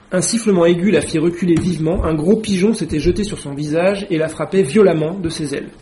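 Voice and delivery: reading a novel passage aloud to a class; lightly acted read-aloud with voiced characters; story reading. Lecturer reading Alice to students, lightly acted.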